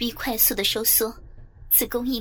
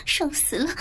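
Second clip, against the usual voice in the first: high, breathless cries building higher and louder; loud moaning cries; 9 semitones higher than usual. A narrator's reading. Mother crying out in the story, loud moaning cries. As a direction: break phrases with gasps, climbing in pitch. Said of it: "听到我大声的叫床".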